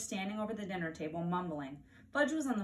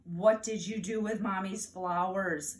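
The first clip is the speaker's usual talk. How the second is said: slow, louder upset question; raised voice; 5 dB louder, slower than usual. Acted. Mother asks Fudge about the flowers, raised upset voice. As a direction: let the worry break through. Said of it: "She raised her voice".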